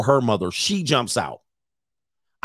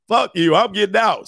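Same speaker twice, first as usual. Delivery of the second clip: slightly raised pitch, mildly indignant; mock anger; 5 semitones higher than usual. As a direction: imitate a fed-up woman storming out. Acts out the pissed-off woman.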